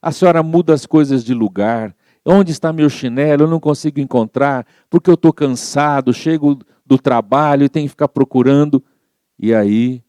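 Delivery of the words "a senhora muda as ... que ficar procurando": retold yelling at mother. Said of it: "começou a gritar com a mãe".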